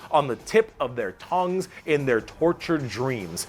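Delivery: deliberate recital, each short phrase set apart; dramatic quote reading. Acted. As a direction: build the proclamation phrase by phrase, ending slow. Continues the faction quote.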